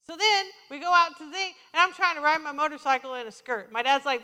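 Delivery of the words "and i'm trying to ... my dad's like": ordinary talk, nothing marked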